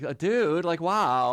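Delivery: mock a California girl; California valley girl. Host mocking California girls on air, in a dopey valley girl voice. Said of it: "the California girls be like".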